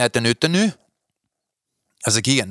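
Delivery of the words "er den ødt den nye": lightly acted question, pitch rising at the end; mildly put-on questioning voice; man's question. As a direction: imitate a man asking, lilting upward. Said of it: "og siger han".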